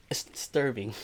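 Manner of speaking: whispered aside. Real, not acted.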